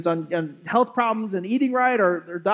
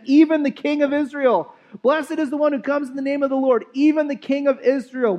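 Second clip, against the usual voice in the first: raised, higher voice hailing a king; crowd acclaiming the king; 5 semitones higher than usual. Acted. Preacher voicing the crowd hailing Jesus, higher and excited. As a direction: cry it out like a festive crowd.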